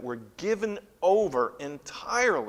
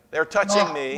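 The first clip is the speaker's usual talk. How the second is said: put-on louder whiny kid complaint; whiny tattling little sibling; 4 semitones higher, 8 dB louder than usual. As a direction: tattle on your sibling, whining. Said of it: "came down to".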